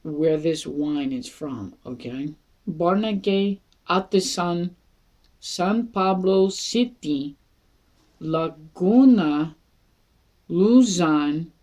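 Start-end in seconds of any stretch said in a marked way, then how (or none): 2.7-11.5 slow, deliberate place names, each set apart; laboured, carefully spaced reading of a long address; careful pronunciation. Real, not acted. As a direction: sound out each name with effort, pausing between. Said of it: "take a deep breath and try to pronounce".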